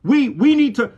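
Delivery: emphatic, driving pulpit exhortation; forceful preaching. Acted. Preacher urging the church not to be afraid, forceful preaching. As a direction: preach it with insistent conviction.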